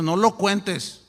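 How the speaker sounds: "No lo cuentes" drawn out word by word; slow solemn command. Retold or imitated. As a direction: lay down "No lo cuentes" slowly and gravely. God's command, slowly repeated.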